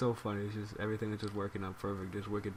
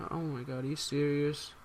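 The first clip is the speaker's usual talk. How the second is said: shocked disbelief; 6 semitones higher than usual. Retold or imitated. Girl learns they listened in.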